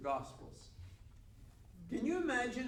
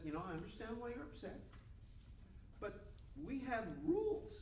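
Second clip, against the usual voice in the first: placating; 4 semitones higher, 4 dB quieter than usual. Acted. Nicodemus soothing the angry priests.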